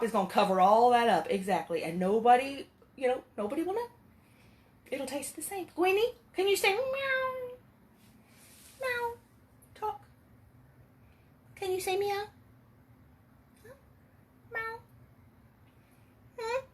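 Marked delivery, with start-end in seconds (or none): 5.8-16.6 high coaxing voice, slow on the ask; pet talk. Real, not acted. Owner begging the cat to meow, high sweet voice.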